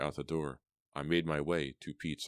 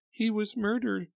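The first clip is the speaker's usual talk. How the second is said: high, louder, sobbing; with a sob; 5 dB louder than usual. A narrator's reading. Mother telling of her son's murder, sobbing. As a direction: break into a sob on it. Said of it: "explained with a sob".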